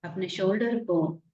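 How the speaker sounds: calm meditation guide, lingering on the words; guided meditation. Real, not acted. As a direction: ease listeners into relaxing, unhurried and even. Leads a relaxation meditation.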